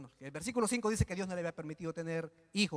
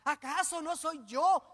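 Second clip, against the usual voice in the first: slow, high cocky question; cocky taunt; 8 semitones higher, 3 dB louder, slower than usual. Retold or imitated. Preacher mimicking Elcana to Ana, slow and cocky. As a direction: sneer it like a smug husband. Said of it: "un poco chulesca".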